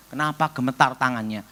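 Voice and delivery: ordinary talk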